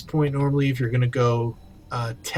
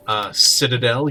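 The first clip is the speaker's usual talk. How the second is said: put-on pirate accent; 4 dB louder than usual. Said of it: "that accent".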